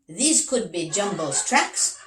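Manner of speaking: proud detective pointing out the tracks; eager detective Big Max. Acted.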